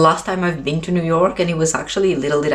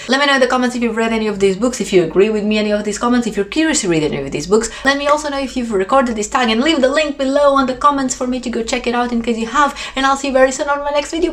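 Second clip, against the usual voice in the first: rushing the outro; 6 semitones higher, faster than usual. Real, not acted. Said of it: "I don't know why I'm rushing".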